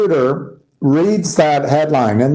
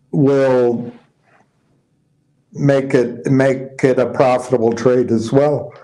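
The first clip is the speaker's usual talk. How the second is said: talking through a yawn; words stretched by a yawn. Real, not acted. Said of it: "Sorry for yawning".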